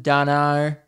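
"dunno" run together without a T; T dropped in dunno. Shown as a demonstration. Host showing lazy Australian speech, "dunno" with no T. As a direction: slur don't know into "dunno". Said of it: "I just think I hate T's".

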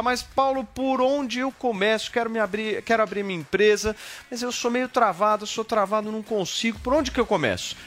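a hint of a hesitant client; imitated customer voice. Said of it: "Aí você vai me perguntar".

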